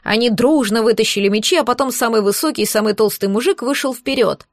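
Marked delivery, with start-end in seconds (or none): none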